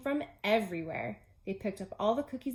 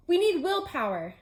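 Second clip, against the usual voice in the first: emphatic; 8 semitones higher, 7 dB louder than usual. Acted. Frog emphatic.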